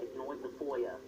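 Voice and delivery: mock British accent, oy in Ignoit and Foya; weird put-on accent. Shown as a demonstration. Showing friend how to say it, weird mock accent. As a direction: show off a silly accent, vowels turned to oy. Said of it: "you have to say it like that".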